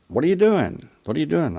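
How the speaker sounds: loud, high call of what are you doing; calling from the roof. Retold or imitated. Grandmother calls down from the roof to the visiting grandson, loud high call. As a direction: shout it down from up on the roof.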